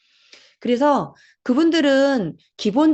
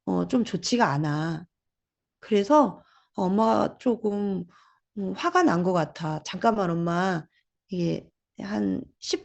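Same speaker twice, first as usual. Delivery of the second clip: calmly name the feeling, no heat; calm expression. Retold or imitated. A mother calmly telling her child she feels upset. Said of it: "화를 표현하는 거는 그게 아닙니다".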